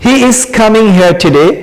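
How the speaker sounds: He is coming here today, drawn out slowly; slow model sentence. Shown as a demonstration. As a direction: lay each word down for the class. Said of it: "এর মানে হচ্ছে". (ধীরে ধীরে উদাহরণ বাক্য)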